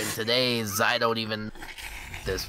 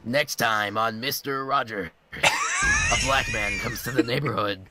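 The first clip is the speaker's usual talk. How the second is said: deadpan show announcer; mock promo announcer. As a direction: parody next-episode teaser.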